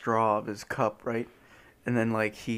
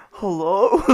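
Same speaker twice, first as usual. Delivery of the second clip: laughing; 7 semitones higher, 5 dB louder than usual. Retold or imitated. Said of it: "he's like".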